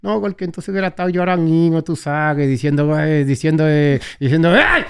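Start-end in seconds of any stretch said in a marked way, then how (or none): 4.5-4.8 trance fingido, agudo y fuerte; imitando hablar en lenguas. Retold or imitated. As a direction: balbuceo agudo de quien habla en lenguas, exagerado. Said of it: "eso cuando hablan en lengua". (imitación burlona de hablar en lenguas)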